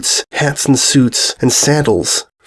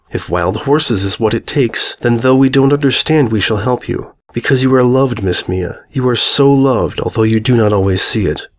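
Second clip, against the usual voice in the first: tender reassurance. Acted. Princess Luna promising to help Mia, tenderly. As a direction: comfort her like a loving mother.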